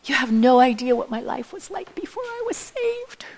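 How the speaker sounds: imagined protesting listener. Acted. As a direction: play a doubter pleading excuses. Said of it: "so you're still thinking".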